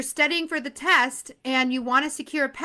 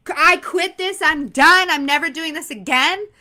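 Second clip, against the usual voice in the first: louder, fed-up outburst, hammed-up; mock frustrated quitting; 3 semitones higher, 6 dB louder than usual. Sales rep after a bad day, mock fed-up outburst. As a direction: play the rep who wants to quit.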